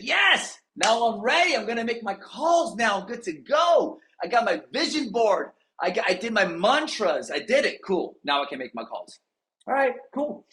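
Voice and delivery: high, hyped mock voice; mock pumped up. Tom after Rocky videos, high hyped mock voice. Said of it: "He's like".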